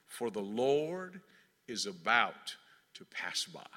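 slow, low and soft scripture reading; hushed awe. A narrator's reading. Preacher reads scripture he loves, in hushed awe. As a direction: let it sink down slowly, reverently. Savoring a loved scripture line.

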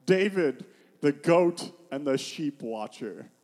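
loud, drawn-out lowly title; mock self-introduction. Preacher voicing a David who has nothing, mock grand introduction. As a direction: announce it like a hammed-up title. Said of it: "He's not saying".

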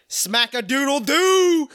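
goofy exclamation. Retold or imitated. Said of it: "and he said".

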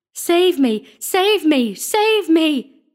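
high, loud screamed pleas; terrified scream. A narrator's reading. Sexton chased through the church, screaming in terror. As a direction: shriek for help with each cry falling away. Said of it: "screamed the sexton".

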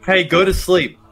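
high cartoon cat voice. Shown as a demonstration. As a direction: play a little cat. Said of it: "I need a cat voice".

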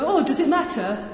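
light mock Yorkshire accent, said through a laugh. Surgeon teasing a patient, in a playful Yorkshire accent. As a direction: toss it off in a jokey Yorkshire accent. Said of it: "In my best Yorkshire accent".

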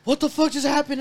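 high, loud, imitated panic; composure breaking. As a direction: play your brother suddenly losing his cool. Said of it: "his composure just breaks".

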